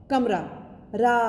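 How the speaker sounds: कमरा then रा alone to show its आ ending; sounding out the ending. Shown as a demonstration. Teacher isolates रा for the children. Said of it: "आ की ध्वनि आ रही है ना".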